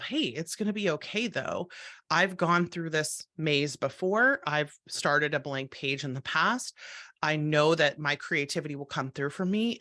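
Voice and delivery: put-on reassuring parent talking to a worried child; parental soothing. Shown as a demonstration. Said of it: "in my best parental soothing voice".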